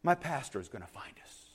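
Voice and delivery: low, soft payoff; quiet certainty after the outburst; deadpan punchline. Retold or imitated. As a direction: drop the voice for the assured last word. Quiet punchline after the big declaration.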